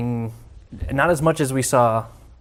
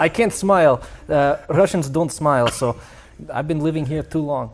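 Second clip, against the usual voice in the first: put-on Russian accent. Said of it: "He's doing a Russian accent".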